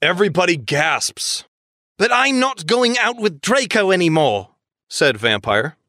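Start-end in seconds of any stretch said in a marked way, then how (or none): 2.0-4.5 lightly voiced Radcliffe, high pitched; a hint of Harry Potter actor; Daniel Radcliffe impression. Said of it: "That was my best Daniel Radcliffe".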